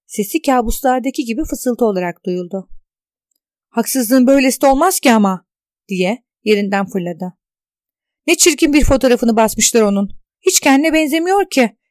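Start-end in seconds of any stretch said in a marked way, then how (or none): 3.7-5.5 indignant. Acted. Indignant outburst, jumps up. 8.3-11.8 loud, higher indignant complaint; outraged. Acted. Tuna reacting to the newspaper photo, loud and indignant.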